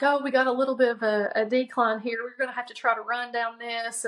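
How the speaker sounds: lightly imitated coach, quick and pushing; mock coach rushing her along; savage coach urging. Brother urging his sister down a decline, brisk mild coach voice. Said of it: "he went savage cross-country coach on me".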